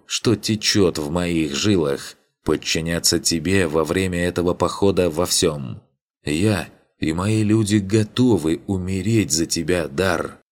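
grave, ceremonious declaration; solemn voice. A narrator's reading. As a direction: pledge it like a sacred vow. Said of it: "торжественным голосом произнёс он".

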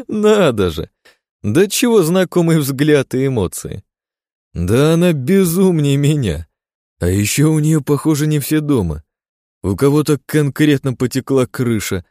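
high, loud gleeful madman; cackling hell torturer. Acted. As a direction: relish every word, unhinged. Gleeful mad monologue.

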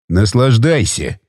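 slow, low vengeful jab; slow spiteful parting shot. A narrator's reading. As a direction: savour the spite slowly. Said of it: "мстительно произнёс он".

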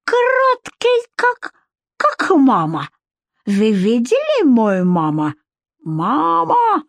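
very high thin wail, calling mama; piping squeal calling for his mother; even thinner wail. Acted. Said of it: "Ещё более тонким голосом завопил он".

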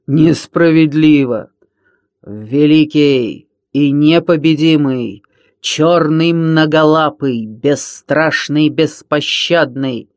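loud, slow, gloating pirate villain; mock the kids and boast of your might; boastful villain Рыка. (хвастливый злодей, медленно и громко)

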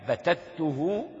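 بتته drawn out slowly, each sound held; slow stressed word. Shown as a demonstration. Teacher to students, slowly stressing the word. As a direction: lean on بتته and stretch it. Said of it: "البت هو القطع الكامل".

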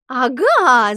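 loud gotcha; triumphant shout. A narrator's reading. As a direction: pounce on the discovery with a shout. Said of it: "закричала Алла".

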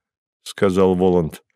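plain reading voice

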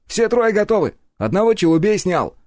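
high, loud excited report; friend reporting. A narrator's reading. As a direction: call down the good news. (возбуждённый доклад)

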